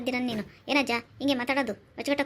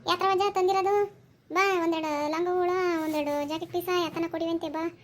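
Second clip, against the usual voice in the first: raised, drawn-out call; 4 semitones higher than usual. Acted. Village woman summoning the old cloth seller, calling out. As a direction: hail the passing seller in a higher voice.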